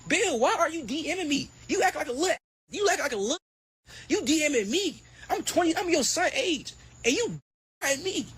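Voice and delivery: high-pitched mock whine at Bill; hammed-up high mock rant. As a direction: squeak it out like a bratty kid. Repeat of mocking rant.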